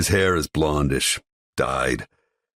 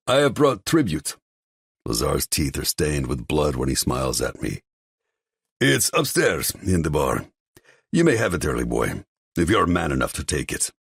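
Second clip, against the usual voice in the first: taunting rival; 3 semitones higher than usual. Acted. Lazar baits the boy about the tribute, smug. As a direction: goad him with a smile.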